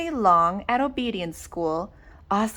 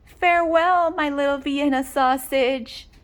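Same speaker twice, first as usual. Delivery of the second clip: calling out farewell; 4 semitones higher than usual. Acted. Mother calling to her pup across the yard, high call. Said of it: "waving and calling out".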